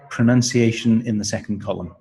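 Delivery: ordinary delivery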